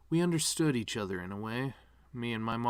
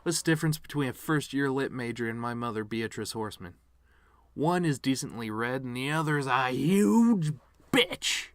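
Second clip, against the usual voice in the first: joke setup voice; 3 semitones higher, 4 dB louder than usual. Shown as a demonstration. Showing the piano man what a funny joke sounds like, punchy and loud. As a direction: sell it like a stand-up punchline. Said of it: "Ready for one more?".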